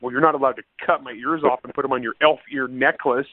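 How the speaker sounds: half-shouted indignant retort; retold comeback. Elf Tanya snapping back at Edward the orc, shouted retort.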